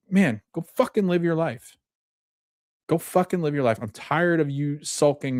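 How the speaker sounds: fed-up push, acted without shouting; exasperated urging. Gabby urges sulking Lewis to live, exasperated retelling.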